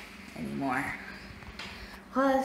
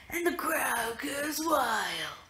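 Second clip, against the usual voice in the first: mock announcer; 5 semitones higher, slower than usual. Mock announcer line, whispered.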